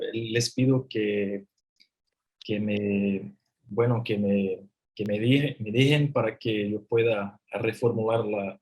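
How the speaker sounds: rusty non-native Spanish accent; american accent spanish. Real, not acted. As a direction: speak Spanish carefully with a foreign accent. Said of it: "mi español está, se queda un poco oxidado".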